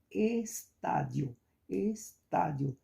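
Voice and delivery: "estádio" spaced out with weight on tá; stress on tá. Shown as a demonstration. Teacher giving students an example of stressed syllables, stress on tá. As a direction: separate es from a strong tá in "estádio". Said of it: "é a mais forte".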